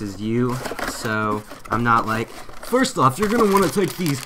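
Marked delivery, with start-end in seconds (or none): 2.3-4.2 high, loud parody of a know-it-all presenter; hammed-up instructor, pitched way up and loud; mock tutorial expert. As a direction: put on a showy explainer voice. Mocks jargon-heavy tutorial presenters.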